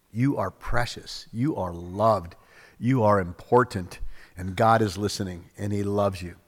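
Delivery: low, soft, sincere affirmation; tender reassurance. Acted. Preacher giving God's love to a doubting listener, tender reassurance. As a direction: drop the voice and reassure gently.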